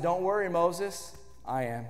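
low, soft voice of God answering; God calming Moses, low and soft. Retold or imitated. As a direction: reassure him quietly as God. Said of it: "And God said".

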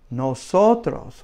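nosotros said slowly with a falling end; model for repeating. Shown as a demonstration. Teacher models nosotros slowly for students to repeat. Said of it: "just repeat that several times".

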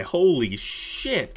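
ordinary talk, nothing marked

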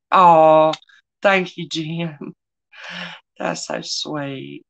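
moved by a sweet comment; tender gratitude; touched. Real, not acted. Husband's kind comment in chat.

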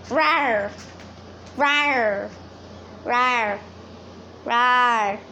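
short playful "rawr" noises; mock roar. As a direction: make small pretend roars, one at a time. Mock roaring at pet.

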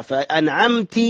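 فأنعمت ending in "ti"; wrong ending. Retold or imitated. Teacher repeats the error, i ending on فأنعمت. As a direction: close فأنعمت on an i vowel. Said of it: "هذه من الأخطاء".

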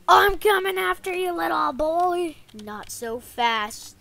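put-on taunting threat to a little boy; lightly voiced bad guy; play villain menace.

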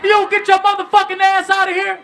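high, loud disbelieving shout; incredulous yell. Retold or imitated. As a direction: yell her out of the car in disbelief. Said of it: "I'm like".

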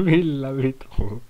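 slow, laughing through the words; laughing disbelief. Real, not acted. Gamer laughing at an absurd obstacle, slow laughing disbelief. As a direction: drag it out while laughing.

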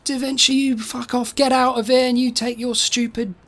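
lightly hammed-up angry mob; mock angry heckling. Voices an angry jeering crowd.

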